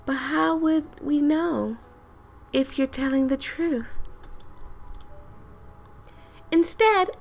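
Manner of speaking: high-pitched lady voice. Pretend. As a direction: nudge the voice up a little for the game lady. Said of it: "she has an high-pitched voice like this".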